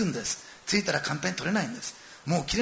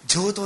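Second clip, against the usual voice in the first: 上等 said higher and louder; stress on 上等; 5 semitones higher, 6 dB louder than usual. Retold or imitated. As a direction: lean hard on 上等. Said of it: "上等ってわだわだ言ってるんですよ". (「上等」を高く強く言う)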